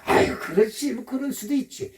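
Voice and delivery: low, forgiving self-talk; easygoing shrug. Acted. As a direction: shrug it off generously. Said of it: "이렇게 마음이 너그러워져요".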